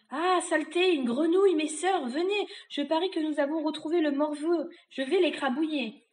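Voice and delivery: high, loud witch's outburst; angry witch. Acted. Witch to her sisters on spotting a frog, high angry cries. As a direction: summon your sisters to squash the pest.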